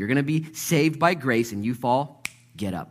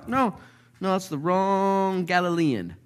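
evasive denial; 10 semitones higher, 5 dB louder than usual. Acted. Peter nervously denying the accusation.

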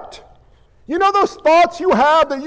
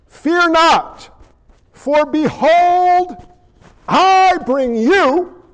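slow, stately announcement with long-held words; proclaiming angel; 3 semitones higher, slower than usual. Acted. Preacher voicing the angel to shepherds, slow proclamation. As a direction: herald it slowly, word by word.

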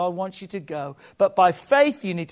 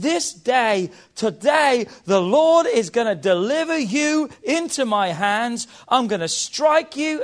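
loud, raised defiant declaration; bold battle cry; 3 semitones higher, 4 dB louder than usual. Acted. David roaring his defiance at Goliath, loud and high. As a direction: shout it at the giant like David.

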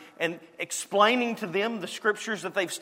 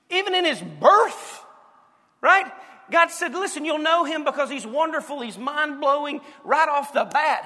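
rising excitement; 7 semitones higher, 4 dB louder than usual. Acted. Preacher builds to a climax.

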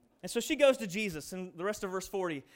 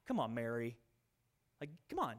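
exasperated; 11 semitones lower, 8 dB quieter than usual. Retold or imitated.

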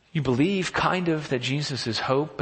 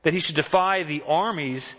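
incredulous; 3 semitones higher than usual. Retold or imitated. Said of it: "this kind of incredulous voice that David has".

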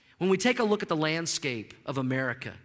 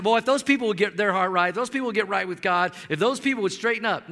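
louder, judging tone on "those people"; mock holier-than-thou complaint; self-righteous finger-pointing; 2 semitones higher, 4 dB louder, faster than usual. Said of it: "we like to say".

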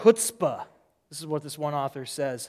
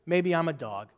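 humble persistence; 4 semitones lower than usual. Retold or imitated. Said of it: "she owns this statement".

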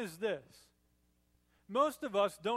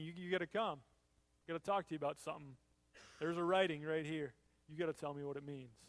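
hushed urgent king; 4 semitones lower, 6 dB quieter, faster than usual. Retold or imitated. King summoning Daniel, hushed.

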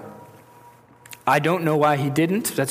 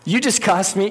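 mock complaint; 4 semitones higher than usual. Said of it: "complain and be like".

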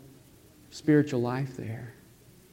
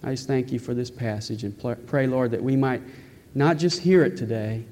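earnest, measured public prayer; closing prayer; 2 semitones lower than usual. Real, not acted. Pastor closing the sermon in prayer for the congregation, earnest and measured. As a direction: pray sincerely, with pauses between petitions.

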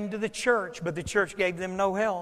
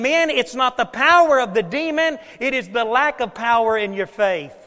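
preaching shout; 2 semitones higher, 5 dB louder than usual. Retold or imitated. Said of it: "He was saying".

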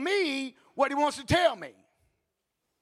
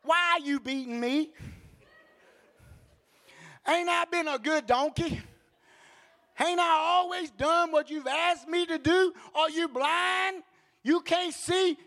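lightly voiced aggrieved donkey, pitched up; hammed-up complaint in a higher voice; talking donkey; 4 semitones higher than usual. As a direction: protest as the wronged donkey. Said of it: "the donkey says to Balaam".

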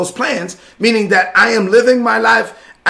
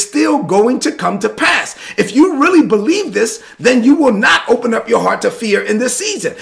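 preaching at full force; 3 semitones higher than usual. Acted. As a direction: build the sermon to a climax.

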